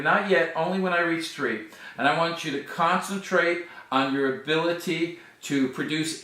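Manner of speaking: steady hypnotic suggestion voice; mesmerizing. Acted. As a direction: coax the hands tighter, hypnotist style. Hypnotist leads hand-lock induction.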